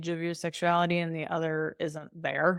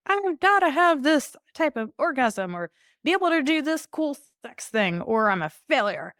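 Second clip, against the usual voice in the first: high, loud mocking client voice; anxious client; 9 semitones higher, 6 dB louder than usual. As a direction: play the stressed-out overachiever. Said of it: "they're like".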